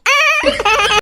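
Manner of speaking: slow, gloating villain laugh. Acted. Daughter-in-law gloating over poisoned tea, slow laugh. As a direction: savour the evil plan with a chuckle.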